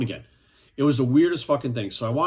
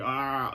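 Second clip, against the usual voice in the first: sped-up "aah"; 4 dB quieter than usual. Retold or imitated. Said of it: "like, all fucking sped up".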